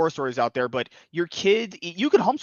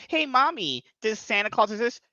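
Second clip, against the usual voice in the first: a higher, lightly voiced curious little kid; 6 semitones higher than usual. A little kid asks his mom about Santa, lightly higher child voice. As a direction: ask it like a small child tugging at Mommy's sleeve.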